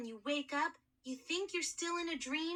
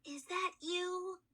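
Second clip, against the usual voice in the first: frightened whisper; 5 semitones higher, slower than usual. Acted. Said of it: "I whispered".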